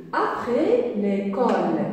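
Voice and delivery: careful classroom reading; slow, deliberate reading to children; slow reading aloud. Shown as a demonstration. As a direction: read it slowly and clearly for the class. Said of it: "Donc, je lis".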